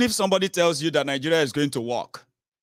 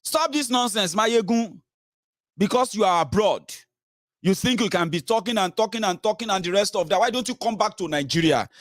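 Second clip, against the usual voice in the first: pitched up, scolding the speaker from abroad; mock scolding critic; 4 semitones higher than usual. Quoting the critic who attacks him from abroad, higher scolding voice. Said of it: "He said".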